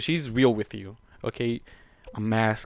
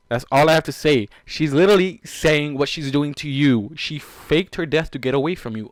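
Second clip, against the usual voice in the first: insistent scolding; 3 semitones higher, 9 dB louder than usual. Real, not acted.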